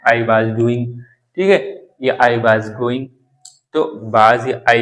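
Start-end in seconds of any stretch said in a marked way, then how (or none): 0.0-0.9 Indian English "was" as vaaz; Indian accent. Shown as a demonstration. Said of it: "Indian का भी एक accent है". 2.2-3.0 Indian English "was" as vaaz; Indian accent. Shown as a demonstration. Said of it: "Indian का भी एक accent है".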